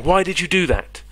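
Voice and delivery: loud, high, upset "Why did you do that?"; shouted exclamation. Shown as a demonstration. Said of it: "this is when you sort of shout".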